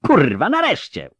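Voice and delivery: high, relieved exclamation; excited cry. A narrator's reading. Angoulême glad to be leaving, excited cry. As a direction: burst out with a gleeful curse. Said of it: "krzyknęła Angujem".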